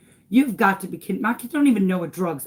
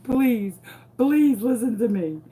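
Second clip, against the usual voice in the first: pitched-up, urgent plea; desperate pleading; 4 semitones higher, 3 dB louder than usual. Retold or imitated. Mother begging police to listen, pleading. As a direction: beg to be heard, voice lifted.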